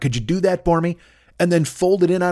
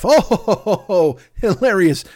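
mock hearty laugh; 5 semitones higher than usual. Players laughing in mock delight.

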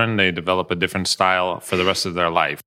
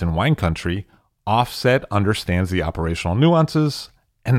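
polished, measured podcast ad delivery; scripted host-read promo; sponsor ad read. Acted. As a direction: sell the sponsor with crisp, deliberate emphasis.

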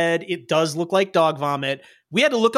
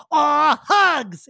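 cheerful clinging creature; 7 semitones higher than usual. Acted. Bug creature hugging the rider, chirpy. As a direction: squeeze out a happy hug cry. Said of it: "and he goes".

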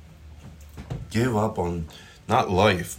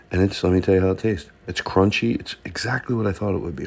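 talking while chewing; eating mid-sentence; mouth full. Real, not acted. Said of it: "I know eating's rude".

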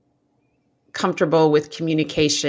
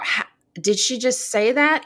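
higher-pitched, mock-scandalized question; mock shock; 5 semitones higher than usual. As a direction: imitate someone taken aback by a remark. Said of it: "people go".

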